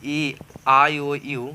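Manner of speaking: each vowel letter said slowly and apart; slow letter-by-letter vowel drill for the class; spelled out slowly. Shown as a demonstration. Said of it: "जिसे बोलता है ना ए".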